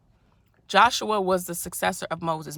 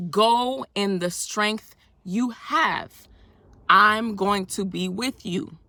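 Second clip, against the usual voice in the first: slow solemn command; 3 dB louder, much slower than usual. Acted. Voicing God's command.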